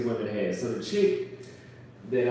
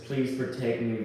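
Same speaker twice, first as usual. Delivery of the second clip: soft, precious plea; 4 dB quieter than usual. Retold or imitated. Describing Brazilian women's voice to viewers, soft and precious. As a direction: lightly imitate a sweet, protect-me voice. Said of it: "you get the soft, precious ... voice".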